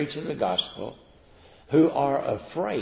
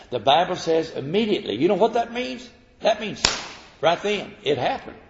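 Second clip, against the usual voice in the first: raised, punchy pulpit delivery; emphatic preaching; 7 semitones higher, 5 dB louder than usual. Real, not acted. Preacher stresses the instant healing, emphatic preaching. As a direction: lift the voice high and hammer the point.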